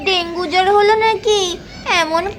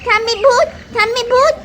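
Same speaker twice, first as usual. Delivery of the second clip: put-on higher, whining frightened boy; scared child; 5 semitones higher than usual. Little boy refusing to go near granny, higher scared whine. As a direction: beg not to go to the ghost granny.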